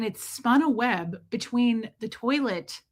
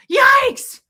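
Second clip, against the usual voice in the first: piercingly high, loud mock scream; comic creature shriek; shrieking talking snake; 11 dB louder than usual. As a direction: play a snake startled out of its skin. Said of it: "It was like".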